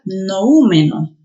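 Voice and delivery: noúmeno as no-Ú-me-no; noúmeno with o and ú kept apart; stress on the ú. Shown as a demonstration. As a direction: put the force on the ú of noúmeno. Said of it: "la mayor fuerza de voz".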